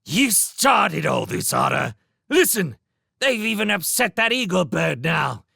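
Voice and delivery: furious sentry ordering him off; angry guard. Acted. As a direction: drive the otter away. Guard angrily chasing otter off.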